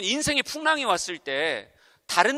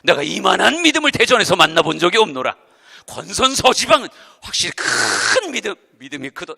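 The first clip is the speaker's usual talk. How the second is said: solemn praise; 2 semitones lower, 11 dB louder than usual. Pretend. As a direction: pronounce praise like Jesus. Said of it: "칭찬해 줄 거예요". (성경 말투로 엄숙하게 칭찬)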